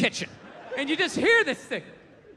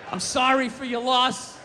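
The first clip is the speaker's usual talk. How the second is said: slow, mock-solemn condolence; mock sympathy; slower than usual. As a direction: fake sincere sympathy, slowly.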